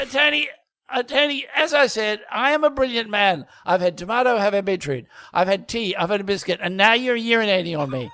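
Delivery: affronted gentleman's lecture; pompous posh Newton, indignant. Pretend. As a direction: list your grievances with wounded dignity. Plays Newton in the sketch.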